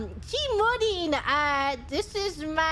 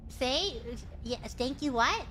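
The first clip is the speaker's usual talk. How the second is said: teasing command; 5 semitones lower, 7 dB quieter than usual. Acted. Teasing demand in queen role.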